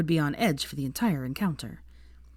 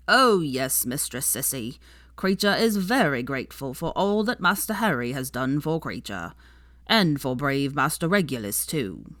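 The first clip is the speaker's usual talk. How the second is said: lightly voiced devoted house elf, proud; a hint of an old servant speaking up for his master; 2 semitones lower than usual.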